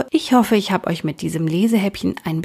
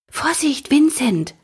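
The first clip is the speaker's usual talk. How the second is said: a little squirrel's higher warning call; 7 semitones higher than usual. Acted. Squirrel warns Vincent before the blow, high calling voice. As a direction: warn him sharply, high like a small squirrel. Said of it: "rief das Eichhörnchen".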